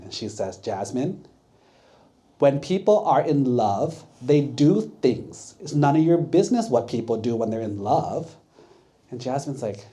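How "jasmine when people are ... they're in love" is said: louder, sassy brush-off. Retold or imitated. Woman sassily telling the monk Jasmine to mind his business, louder. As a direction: put him in his place, mildly sassy. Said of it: "she got really sassy with Jasmine".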